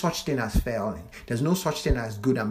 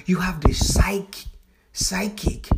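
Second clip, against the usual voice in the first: whisper; 6 semitones higher, 4 dB louder, slower than usual. Real, not acted. Whispered build-up to a term.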